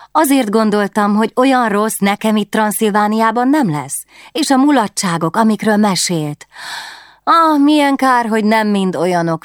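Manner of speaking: put-on dreamy young queen longing for fun; wistful princess.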